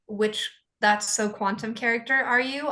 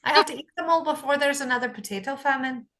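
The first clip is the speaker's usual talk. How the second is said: put-on Irish accent; 2 semitones higher, faster than usual. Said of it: "Irish and Latin".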